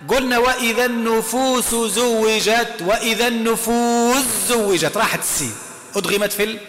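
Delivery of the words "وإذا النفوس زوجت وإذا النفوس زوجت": slow tajweed recitation; Quran recitation. Shown as a demonstration. Teacher reciting the example verse to students, slow recitation. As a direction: draw the verse out slowly. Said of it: "أعطينا مثال".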